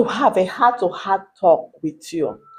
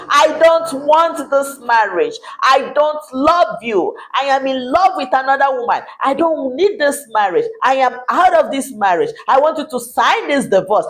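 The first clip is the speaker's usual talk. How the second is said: husband's rejection; 4 semitones higher than usual. Retold or imitated. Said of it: "He has even told you".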